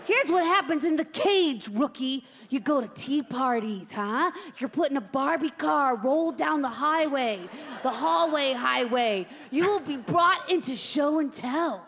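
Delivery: put-on tough old hand briefing a rookie; jaded veteran hamster. Veteran hamster tells the rookie about cage life, hard-bitten. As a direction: lay out the grim routine with relish.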